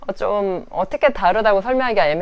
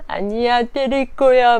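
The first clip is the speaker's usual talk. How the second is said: imitating a defiant four-year-old, higher; defiant toddler; 5 semitones higher, slower than usual. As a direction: pout it out like a stubborn toddler. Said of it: "막 이래요".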